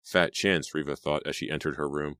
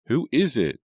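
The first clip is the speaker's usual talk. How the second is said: louder, higher, icy challenge; cold demand; 8 semitones higher, 5 dB louder than usual. A narrator's reading. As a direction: answer the phone ready to bite. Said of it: "she demanded in a cold voice".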